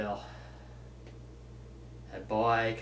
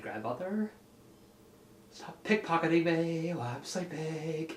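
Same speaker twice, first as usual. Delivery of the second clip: hushed complaint; 2 semitones higher, 8 dB quieter than usual. Retold or imitated. Baby scolding grandmother.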